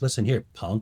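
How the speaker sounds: put-on taunting, mocking chirp. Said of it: "now he's giving me a chirp line".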